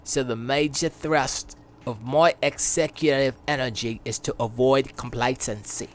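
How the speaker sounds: lightly put-on British accent for Jim Ryan. Gamer reading the Sony boss's quote in a British accent. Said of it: "I gotta do it in his accent".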